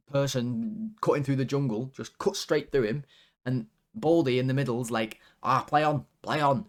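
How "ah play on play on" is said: lightly put-on Manchester accent; mock Manc referee waving play on. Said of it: "in his Manc accent".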